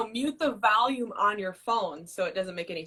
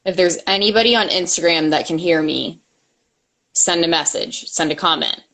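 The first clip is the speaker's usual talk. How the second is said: calling out; 4 semitones lower, 9 dB louder than usual. Real, not acted. Calling out to Instagram viewers.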